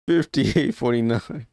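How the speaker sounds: slow put-on Commonwealth accent, British or Australian; mock British or Australian accent. Streamer replaying the score for laughs, mock British or Australian accent. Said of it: "They have a totally different cadence".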